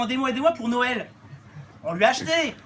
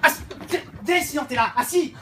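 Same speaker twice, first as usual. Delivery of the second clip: calling the dog; 6 semitones higher than usual. Acted. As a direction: shout for the dog across the hospital lobby.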